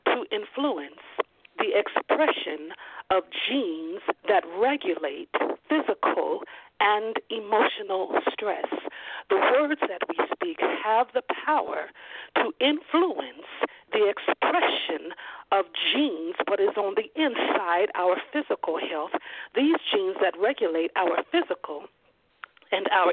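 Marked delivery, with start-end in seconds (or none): 0.1-8.7 slow, weighed quotation; slow quote. Shown as a demonstration. Pastor quoting the neuroscientists slowly to his church. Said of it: "listen to this". 9.3-19.1 preaching. Acted. Pastor driving the point home to the congregation, rising preaching. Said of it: "preaching restatement".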